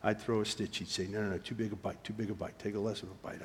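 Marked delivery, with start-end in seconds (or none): 1.1-3.4 hushed, low-voiced coaching; surgeon's quiet instruction, barely voiced; imitated whispering mentor. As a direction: murmur corrections close to the ear. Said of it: "he's whispering to me".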